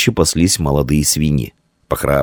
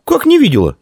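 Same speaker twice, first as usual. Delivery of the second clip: high, louder outraged question; indignant; 4 dB louder than usual. A narrator's reading. Girl indignant at Dian's request, high outraged. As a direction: protest hotly at the lie. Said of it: "возмутилась малышка".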